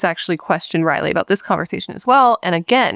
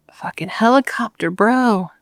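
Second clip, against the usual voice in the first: annoyed whispered aside; 4 semitones higher, slower than usual. Real, not acted. Annoyed aside at noise outside.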